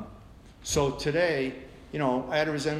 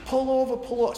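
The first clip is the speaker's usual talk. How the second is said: retold yell; 10 semitones higher than usual. Road rage at the biker, shouted order. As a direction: bark the order to pull over. Yelling at ex on highway.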